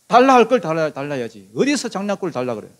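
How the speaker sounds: mock outraged telling-off, bursting out loud at the start; acted indignant rebuke; indignant scolding. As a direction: play at scolding a brother for asking too much. Imagined indignant rebuff to brother.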